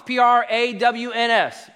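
P R A W N S spelled letter by letter, slow; slow spelling of the word; spelled out slowly. Shown as a demonstration. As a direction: spell it out like a teacher.

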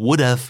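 "would've" with a short final "v" sound; contracted form. Shown as a demonstration. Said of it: "หลายครั้งอาจจะได้ยินว่า".

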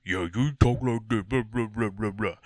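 put-on teasing babble; jokey voice running into blah-blah; mocking wife. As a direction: imitate a wife mocking her husband. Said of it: "you know, she mocks me".

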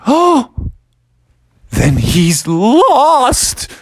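high, slow wailing cry; mock crying wail. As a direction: wail it out like a panicked mother. Mom realises son lost.

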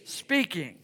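slow, measured group recitation; deliberate, drawn-out delivery; leading a recitation. Real, not acted. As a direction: lead the room through it word by word. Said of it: "I want you to say that with me".

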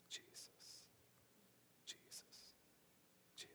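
soft breathy whisper of Jesus; whispered prayer. Retold or imitated. Grandmother whispering to God in the dark, softly. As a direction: whisper the name like a quiet prayer. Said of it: "her whisper in the name of Jesus".

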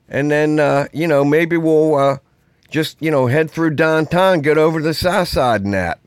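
put-on friendly Pittsburgh accent, inviting a buddy out; hammed-up Pittsburgh accent. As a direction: lay on the Pittsburgh accent like a local planning the weekend. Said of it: "A real Pittsburgh accent is like".

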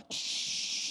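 long hissing noise without voice; drawn-out "shhh" noise; imitated dragging noise. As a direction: imitate a kid being dragged along with a long hiss. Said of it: "They're like".

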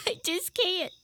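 choked up, slightly weepy; tearful. Acted. Upset mother backs out of caroling, tearful. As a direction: let a small sob into it.

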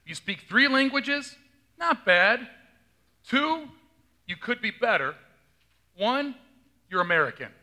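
punchline delivered with rising emphasis; joke telling. Retold or imitated. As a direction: set up the European joke, land it dry. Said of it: "they'll say".

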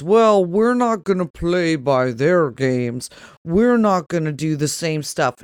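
a lightly voiced mock tough guy; mock man voice. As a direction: put on a manly voice to mock the Republicans. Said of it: "Is that your man voice when you lower your voice like that?".

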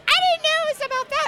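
very high, rapid mimicked protest; mock astonishment. Host quoting friends hearing the lyrics, mock-shocked squeal.

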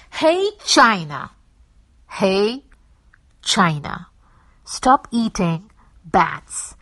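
loud, slow pleading call. Acted. Vlogger calling out to China, loud and pleading. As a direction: call across, begging them to stop.

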